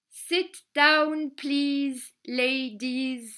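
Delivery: put-on child proudly repeating the English phrase. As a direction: say it back to remember it, brightly. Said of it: "je répète tout". (la petite fille répète la phrase en anglais, fièrement)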